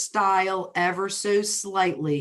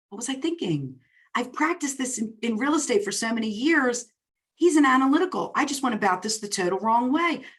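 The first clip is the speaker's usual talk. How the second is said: self-scolding inner thought; 5 semitones higher than usual. Retold or imitated. Speaker retells her own panicked thought.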